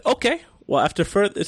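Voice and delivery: high, loud "Okay, well"; sassy reply. Retold or imitated. Jensen Karp answering the brand, high and sassy. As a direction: start it with a sassy lift. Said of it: "and then he said".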